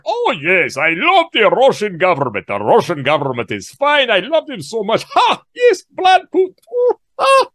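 hammed-up Russian accent, high-pitched squeals of delight; mock Russian accent. YouTuber mocks the suspected spy wife, mock Russian accent. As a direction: gush over Putin as a mock Russian wife. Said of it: "she's like".

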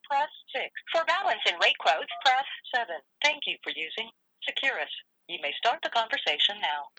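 automated jail phone message over the line; phone call audio. Acted. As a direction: read it like a recorded phone system. Collect call from an inmate.

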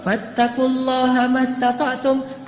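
slow chanted Arabic; verse recitation. Acted. Preacher recites the verse, slow chant. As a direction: intone the ayat slowly.

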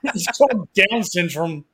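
giggling through the words; laughing so hard the voice rises high. Real, not acted. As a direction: say it while cracking up.

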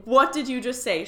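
loud, drawn-out opening, then a high-pitched demand; stunned, stretch it out, then shoot up high; shocked disbelief. Retold or imitated. Acts out shocked reaction to medium.

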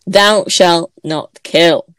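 slow, loud, grave decree; solemn commandment. Shown as a demonstration. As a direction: intone it like a preacher from the pulpit. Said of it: "let me do that again".

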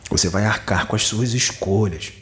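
deliberate, lightly menacing warning; understated threatening intonation; mock threat. Shown as a demonstration. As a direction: warn them with put-on menace. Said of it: "com entonação de ameaça".

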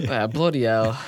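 slow mock-English accent; posh English accent. Visitor echoing the Brit's phrase, slow put-on English accent. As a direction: draw it out in imitated posh English. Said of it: "that's so posh".

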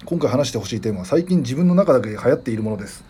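radio host reading a letter aloud; listener mail read-out. Real, not acted. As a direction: read the message out evenly and clearly. Reads listener's message. (お便りを読み上げる調子で)

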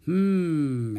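thoughtful hmm. Acted. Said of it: "he said nothing but".

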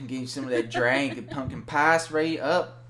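put-on half-hearted North Carolina accent. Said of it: "North Carolina accent I've learned".

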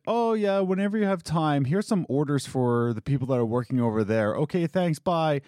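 high, breezy mock boss voice; mocking the owner. Mocking the owner who dumps orders on her. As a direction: toss off the request like a clueless boss. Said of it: "and he says, like".

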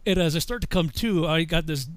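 ordinary talk

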